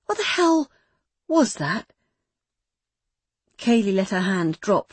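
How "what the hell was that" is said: angry demand. Acted. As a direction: confront her in rising anger. Meg's anger rising.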